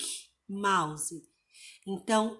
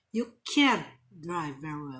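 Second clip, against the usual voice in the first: heaviest stress falling on can't; 5 semitones lower than usual. English lesson given in Portuguese contrasting can and can't, stress on can't. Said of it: "você coloca a sílaba tônica no can't".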